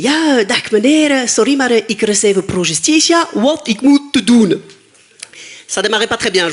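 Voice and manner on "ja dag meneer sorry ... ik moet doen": slow, halting Dutch with a Flemish lilt; clumsy Flemish. Retold or imitated. Comedian on the phone to the police, in slow halting Flemish. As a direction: spell out broken Flemish word by word. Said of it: "parler en français avec un accent flamand".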